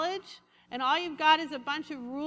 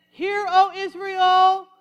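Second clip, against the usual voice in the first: loud, slow, solemn mock-holy proclamation; pious prayer voice; 4 semitones higher, 11 dB louder, slower than usual. Preacher mocking people whose voice changes when they pray, slow and grand. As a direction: put on the churchy praying voice. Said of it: "their voice changes".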